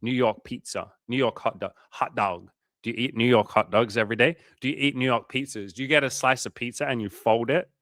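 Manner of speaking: playful attempt at a New York accent; half-successful New York accent; bad New York accent. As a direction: put on a mock New Yorker. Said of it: "I can't do the accent, bro".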